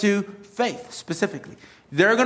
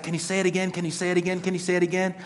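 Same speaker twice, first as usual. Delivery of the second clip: softer, embarrassed asking again; sheepish repeat; 5 dB quieter, faster than usual. Retold or imitated. Pastor asking the U-Haul man to repeat, softly embarrassed. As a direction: keep asking, a bit lost. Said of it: "I was like".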